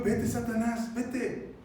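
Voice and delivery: controlled command, not shouted; Jesús, with authority. Acted. Jesus sending Satan away, calmly authoritative. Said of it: "Con autoridad se lo dijo".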